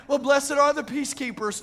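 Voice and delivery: lightly mimicking a mistaken believer; mock misquote. Mimicking those who misquote verse.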